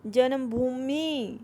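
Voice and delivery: जन्मभूमि said slowly, syllable by syllable; जन्मभूमि drawn out slowly as a dictation model; slow careful spelling. Shown as a demonstration. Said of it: "ज आधा न".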